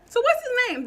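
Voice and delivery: the same question pushed up into a yell; angrier repeated demand. Retold or imitated.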